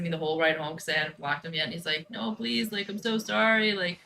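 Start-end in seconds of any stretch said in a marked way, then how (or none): 2.1-4.0 begging. Retold or imitated. Ex begging by text.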